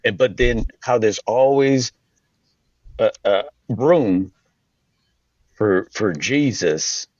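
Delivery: put-on a light Southern preacher accent. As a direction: draw it out like a Southern youth pastor. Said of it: "I have to have a Southern accent".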